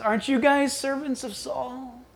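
soft, needling question; quiet taunt. Retold or imitated. The enemy to Saul's soldiers, quiet taunt. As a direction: slip the taunt in softly. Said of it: "And the enemy says".

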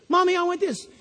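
a hint of a kid begging mommy; demanding child.

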